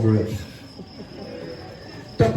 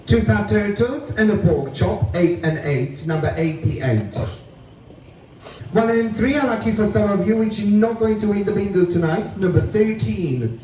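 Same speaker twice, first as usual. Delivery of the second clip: bingo caller. Acted. Calls bingo numbers.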